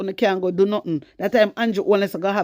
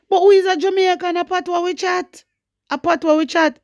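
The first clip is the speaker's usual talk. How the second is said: proud declaration; 9 semitones higher than usual. Real, not acted. Jamaican vlogger proudly telling viewers they chat patois. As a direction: proclaim it with pride.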